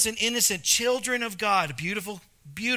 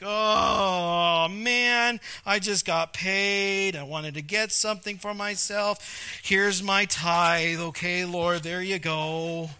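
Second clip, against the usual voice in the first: mock moan, slow and reluctant; grudging giver; slower than usual. Churchgoer grudgingly giving his tithe to God, mock moan. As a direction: hand over the tithe with a sulky sigh. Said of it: "And it's like".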